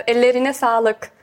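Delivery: ellerine sağlık said slowly, Turkish pronunciation; slow careful ellerine sağlık in Turkish; Turkish phrase. Shown as a demonstration. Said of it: "zum Beispiel".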